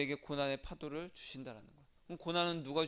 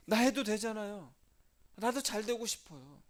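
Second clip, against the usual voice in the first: mock complaint; 4 semitones higher, 3 dB louder than usual. Grumbling believer voiced.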